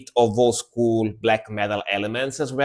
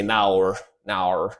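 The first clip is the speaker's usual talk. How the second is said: softer mock Australian "naur, naur"; mock Australian accent; 5 semitones lower, 5 dB quieter than usual. Explaining how Australians say no, soft mock Australian accent. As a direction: quietly imitate the Australian no. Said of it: "When Australian people say no, they say".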